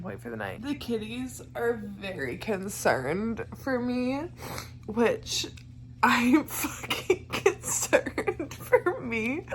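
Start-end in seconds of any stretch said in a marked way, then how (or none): 6.0-9.4 slow, with a real laugh through it; laughing at herself. Real, not acted. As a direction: chuckle while admitting worry. Laughing at her own state.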